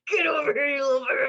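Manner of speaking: high, loud doting yell; loud affectionate taunt. Pretend. Calling a spirit over like a pet, loud doting yell. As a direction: shout it like squealing at a puppy. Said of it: "approach them with love and go".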